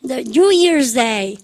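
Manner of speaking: very slow drill pace; slow choral model. Shown as a demonstration. Teacher models the phrase for students, very slow. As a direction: stretch each word very slowly. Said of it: "그죠?".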